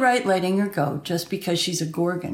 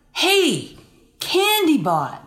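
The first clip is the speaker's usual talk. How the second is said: high call across the room; 7 semitones higher, slower than usual. Real, not acted. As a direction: call Candybot over, pitched up. Calling out to the robot.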